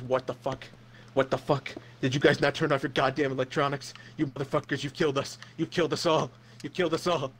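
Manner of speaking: a panicked pilot cursing his passengers over the intercom. Acted. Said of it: "just cursing".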